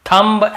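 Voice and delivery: थंब with the final b voiced; old wrong pronunciation. Shown as a demonstration. Teacher recalling how students used to say it, थंब ending in b. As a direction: add a "b" after the m in थंब. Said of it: "ऐसे बोलते थे".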